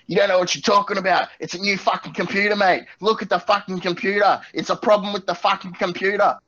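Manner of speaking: high, worked-up ranting farmer; farmer going crazy. Acted. Pig farmer losing it at tech support, irate high rant. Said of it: "he's going crazy".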